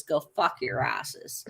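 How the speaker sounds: slow, hushed whisper of contempt; whispered curse. Real, not acted. Slowly whispering a curse at his online accusers. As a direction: breathe the insult out slowly under your breath. Cursing critics while showing record.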